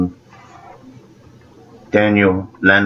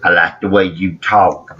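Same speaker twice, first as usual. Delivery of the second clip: imitating the kid from Sling Blade. Quoting Sling Blade's kid in a light imitation. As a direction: mimic the boy's mumbly speech. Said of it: "that's how that kid talks".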